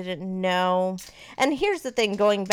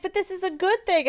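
high-pitched imitation of a tearful friend; holding back tears; 11 semitones higher than usual. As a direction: lightly mimic reassurance through held-back tears. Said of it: "she was holding back tears too".

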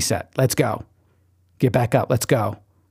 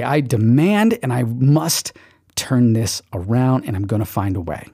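slow, firm vow; determined declaration; slower than usual. Shown as a demonstration. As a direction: declare it slowly.

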